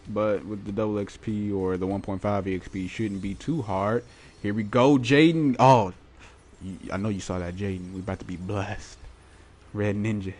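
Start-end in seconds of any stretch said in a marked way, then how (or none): 4.4-5.9 excited. Real, not acted. Hyped pack opening reveal.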